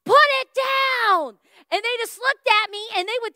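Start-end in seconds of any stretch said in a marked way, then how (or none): 0.0-1.4 loud, high shout at thieves; yelling stop. Retold or imitated. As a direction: yell it out from the doorway, higher. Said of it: "I was like".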